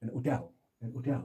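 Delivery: "hotel" with no H, weight on TEL; stressed last syllable. Shown as a demonstration. Teacher demonstrating stress for learners, "hotel" stressed on TEL. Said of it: "जिस पर stress हो".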